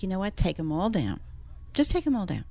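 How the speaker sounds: soothing a flustered homeowner at a color consult, softly; calming client down. Retold or imitated. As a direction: talk an anxious client off the ledge gently. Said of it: "'Cause I try to calm them down".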